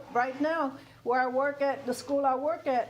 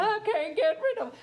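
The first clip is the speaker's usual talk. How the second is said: high laughing imitation of the clinging lady; mimicking the lady; 9 semitones higher, faster than usual. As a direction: send it up, higher, with a laugh.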